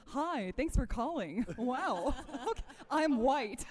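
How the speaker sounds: slow, announcer-style greeting; a hint of a phone-line announcer; movie phone voice. Shown as a demonstration. Showing her go-to Vivian Pickles voice, slow and announcer-like. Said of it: "the movie phone voice".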